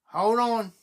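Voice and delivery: imitating a sister's southern accent. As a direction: mimic a Southerner on the phone. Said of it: "southern accent".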